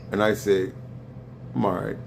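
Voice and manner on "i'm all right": low, flat half-hearted answer; unenthusiastic reply. Retold or imitated. Replying to a friendly hello, flat and unenthusiastic. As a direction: shrug the words off without interest. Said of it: "That's not an enthusiastic".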